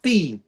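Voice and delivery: "fee" set apart as its own word; second syllable alone. Shown as a demonstration. Comic finishes splitting coffee for the crowd, separated syllable. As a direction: say "fee" like the charge you pay. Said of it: "like you're paying a fee".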